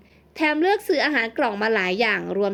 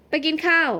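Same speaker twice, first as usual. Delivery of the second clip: higher-pitched, teasing repeat of ไปกินข้าว; incredulous echo; 5 semitones higher than usual. A narrator's reading. Gardener doubting that she dressed up just to eat, incredulous. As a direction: echo ไปกินข้าว in disbelief, falling at the end.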